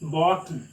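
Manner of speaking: "button" with a held glottal t, no vowel before the n; American button. Shown as a demonstration. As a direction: swallow the t in "button" and go straight into the n. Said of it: "You have to pronounce it as button".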